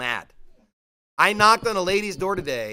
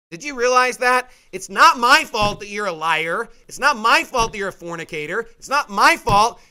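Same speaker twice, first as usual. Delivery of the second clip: louder, hammering each line; preaching hard; 3 semitones higher, 6 dB louder than usual. Real, not acted. Preacher scolding sinners in the pews, loud and forceful. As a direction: pound every sentence home.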